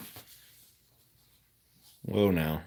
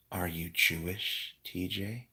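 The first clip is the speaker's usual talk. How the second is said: calm voice; 5 dB quieter than usual. Pretend. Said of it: "read the chat in a really calm voice".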